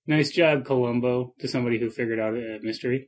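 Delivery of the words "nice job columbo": sarcastic. Retold or imitated. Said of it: "say sarcastically".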